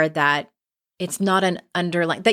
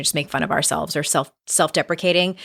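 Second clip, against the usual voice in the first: vocal fry; faster than usual. Real, not acted. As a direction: talk with a creaky vocal fry. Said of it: "Sorry for the vocal fry".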